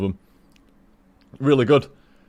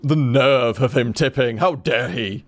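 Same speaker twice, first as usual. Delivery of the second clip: slow, hammed-up huffy indignation; a slow mock outrage at a rude tipper; slower than usual. Shown as a demonstration. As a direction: play the offended snob, slowly. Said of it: "not like fucking".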